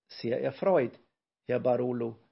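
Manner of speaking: lightly squeaked polite greeting; a hint of a tiny professor piping up; squeaky little voice. A narrator's reading. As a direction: pipe up slightly, like a shrunken man. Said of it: "piepste Brausewein".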